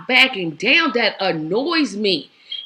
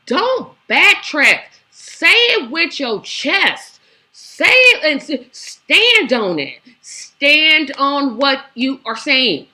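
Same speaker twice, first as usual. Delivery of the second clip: slow, punched, word by word; emphatic exhortation; 2 semitones higher, 4 dB louder, slower than usual. Real, not acted. Commentator urging a politician to stand on her words, emphatic. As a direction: urge it firmly, stretching each key word.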